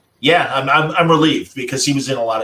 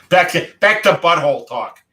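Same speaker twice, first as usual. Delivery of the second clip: light laugh, higher and louder; giggly, brighter after grief; 5 semitones higher, 4 dB louder than usual. Real, not acted. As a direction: break the mood with a chuckle. Laughing shift after sad story.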